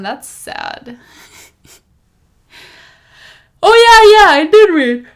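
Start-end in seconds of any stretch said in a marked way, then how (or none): 3.6-5.1 sudden high loud "oh yeah"; surprised realization. Real, not acted. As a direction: blurt it out as if just remembered. Suddenly remembering she read.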